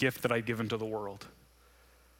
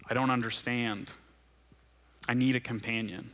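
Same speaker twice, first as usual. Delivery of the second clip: prayer. Acted. Leads closing prayer.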